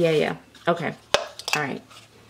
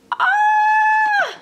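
excited squeal; 5 dB louder than usual. Real, not acted. Opens latched box with name.

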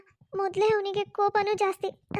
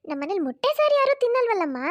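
higher, louder elder woman scolding lightly; mother-in-law protesting, raised voice; objecting mother-in-law; 3 semitones higher, 4 dB louder than usual. Acted. (ಸ್ವಲ್ಪ ಜೋರಾಗಿ ಆಕ್ಷೇಪಿಸುವ ಅತ್ತೆ)

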